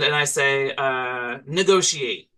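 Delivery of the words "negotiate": commanding mushroom matriarch; matriarchal mushroom voice. Acted. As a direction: give the order like a mushroom queen. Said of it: "my most matriarchal mushroom voice".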